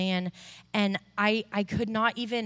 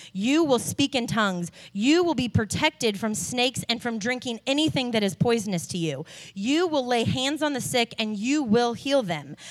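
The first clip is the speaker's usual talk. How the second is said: scripture reading. Acted. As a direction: read the verse with reverence. Reads scripture from Mark.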